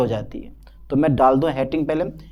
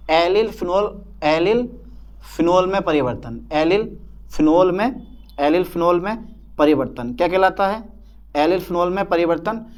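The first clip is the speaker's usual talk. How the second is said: dictation. Real, not acted. Teacher repeating the theory for students to copy, dictating. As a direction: repeat in short chunks, lifted endings. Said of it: "मैं theory लिखवा दूँ".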